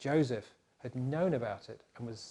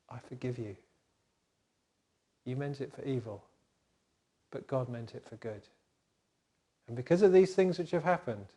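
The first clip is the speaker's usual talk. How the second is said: gentle forgiveness. Acted. Joseph forgiving his brothers.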